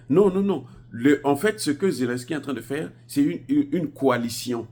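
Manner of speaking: loud, high-pitched argument; heated insistence. Real, not acted. Vlogger arguing one negotiates with adversaries, heated and insistent.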